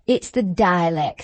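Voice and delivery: slow mock-lordly quote; lightly voicing the squire, slow and grand; Squire Donnithorne. Butler imitating the squire's saying, slow and lordly. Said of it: "says he".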